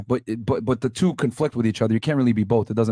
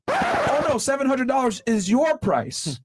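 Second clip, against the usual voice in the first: very high sing-song "Oh no", then slow and pointed; patronising shop clerk, smiling; mock sweet clerk; 10 semitones higher, slower than usual. Clerk telling the customer her fixed price, syrupy then slow. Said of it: "the clerk looks you dead in the face and says".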